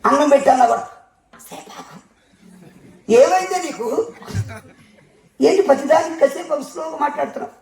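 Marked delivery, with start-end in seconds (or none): 0.8-2.0 slow breathy whisper, barely voiced. Wife hushing her husband at the door, in a slow whisper. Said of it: "స్లోగా మాట్లాడమన్నాడు అయ్యగారు". 3.1-7.5 puzzled husband. Retold or imitated. Husband puzzled at wife's whispering.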